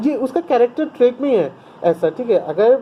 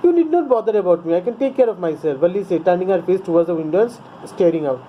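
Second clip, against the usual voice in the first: curt; 3 semitones lower, much slower than usual. A narrator's reading. Teacher reads the English text.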